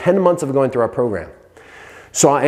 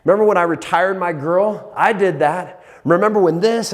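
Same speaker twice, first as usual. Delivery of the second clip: pumped self-talk; 5 semitones higher than usual. Retold or imitated. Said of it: "I'm like".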